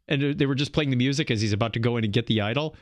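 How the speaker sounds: usual speaking voice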